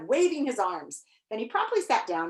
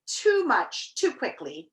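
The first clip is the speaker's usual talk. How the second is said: put-on mildly concerned, higher young voice; sympathetic; 6 semitones higher than usual. A narrator's reading. Milo consoling the overfed Humbug, sympathetically. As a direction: offer it with gentle sympathy. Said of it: "Milo remarked sympathetically".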